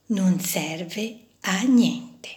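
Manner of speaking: soft, slow, sad repeat of "Non serve a niente."; hurt echo. Acted. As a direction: let the words sink in with pain. Screw recalls the hurtful words.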